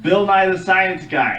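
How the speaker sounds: yelling. Acted. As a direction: call it out as if to people hard of hearing. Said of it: "You don't have to yell".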